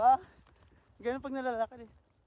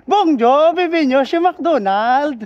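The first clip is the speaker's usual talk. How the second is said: slow, hammed-up French cashier greeting; mock French cashier; 3 semitones higher, 8 dB louder, slower than usual. Vlogger mocking the French McDonald's greeting, hammed-up French accent. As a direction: playfully imitate a French fast-food cashier. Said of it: "Bonjour, bonjour".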